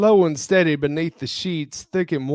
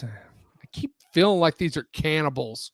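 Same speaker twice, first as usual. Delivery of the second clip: whisper; 3 semitones higher than usual. Real, not acted. Aside during reading.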